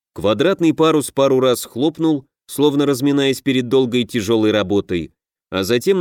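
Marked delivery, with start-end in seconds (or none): none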